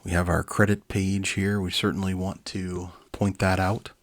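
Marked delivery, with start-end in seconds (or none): none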